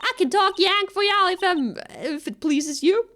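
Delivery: a folksy American Southern voice; Southern accent. Acted. Country gal reassuring shy Maya in Southern accent. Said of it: "You think the accent is good?".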